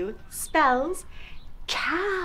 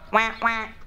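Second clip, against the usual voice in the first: playful quacking; punchy double quack; duck quack; 2 semitones lower than usual. Pretend. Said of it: "I'm a duck".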